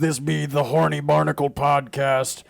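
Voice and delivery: gruff pirate talk. Acted. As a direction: talk like a sea dog. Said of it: "I love doing the pirate voice".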